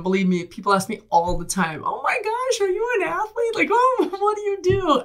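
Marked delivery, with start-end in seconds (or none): 1.8-5.0 excited stranger. Retold or imitated. Imitating excited grocery shopper.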